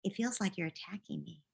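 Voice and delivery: gentle, understanding parent voice; calm parent talk. Pretend. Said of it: "later you can say to him".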